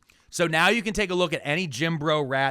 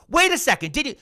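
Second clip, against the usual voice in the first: mock realisation; 11 semitones higher, 5 dB louder than usual. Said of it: "and going".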